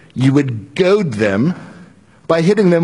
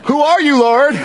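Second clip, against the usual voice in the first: startled question; 9 semitones higher than usual. Acted. Saul asks the voice, fearful.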